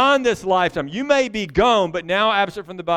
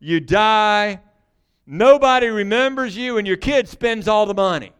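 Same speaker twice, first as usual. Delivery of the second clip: gloomy Solomon; 4 semitones higher, 5 dB louder than usual. Retold or imitated. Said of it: "writing the book of Ecclesiastes going".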